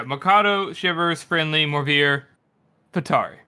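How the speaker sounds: just say each name, "Patari" with no special emphasis; no inflection. Shown as a demonstration. Correcting how the narrator read the names, uninflected recital. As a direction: list the names evenly, pause before "Patari". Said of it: "doesn't say with any inflection whatsoever".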